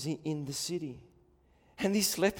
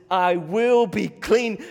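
slow, louder, earnest declaration; tender Jesus voice; 6 semitones higher, 15 dB louder, slower than usual. Retold or imitated. Preacher voicing Jesus to leper, slow earnest. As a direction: proclaim it slowly.

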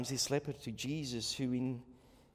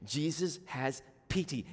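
ordinary talk, nothing marked

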